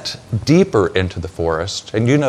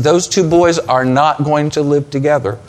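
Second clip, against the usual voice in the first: retold decree, raised in pitch; firm decree; 4 semitones higher, 4 dB louder than usual. Sarah refuses to let the boys live together, firm decree. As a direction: lay down the law as an imitated Sarah, a little forceful. Sarah voiced laying down the law.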